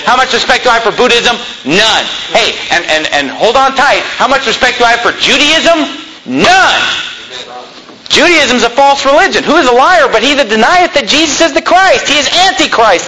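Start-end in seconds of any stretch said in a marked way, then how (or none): 4.2-13.1 preaching at full force. Real, not acted. Preaching climax.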